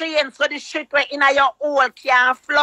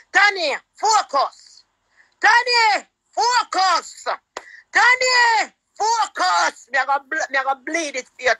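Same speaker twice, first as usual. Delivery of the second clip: preaching; 3 semitones higher than usual. Acted. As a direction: preach it out at full force, Tanny, focus. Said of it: "me have to preach it out sometime".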